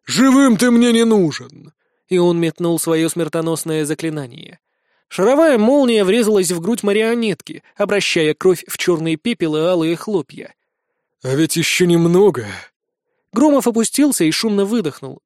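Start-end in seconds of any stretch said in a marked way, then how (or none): 0.0-1.7 slow, higher-pitched vengeful shout; villain pronouncing doom, slowly; merciless battle cry. A narrator's reading. Enemy roars before killing blow. 11.2-12.5 put-on old enemy's voice. A narrator's reading. Old man after the killing blow.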